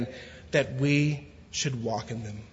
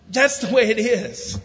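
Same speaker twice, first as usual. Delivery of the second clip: higher, louder words through a laugh; amused after the story; 7 semitones higher, 6 dB louder than usual. Real, not acted.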